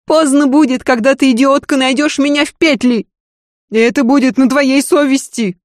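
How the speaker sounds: high, loud bitter rant; bitter desperate lady. Acted. Lady rants to her maid about her seducers, bitter. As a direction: spit out her contempt for the men. Lidia threatens suicide.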